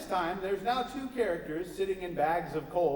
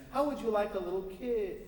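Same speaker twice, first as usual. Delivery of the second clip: flirty preacher; 5 semitones higher than usual. Acted.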